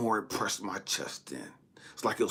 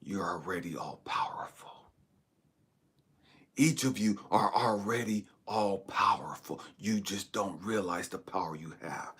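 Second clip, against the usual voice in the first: God. Retold or imitated. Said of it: "And God had to show me".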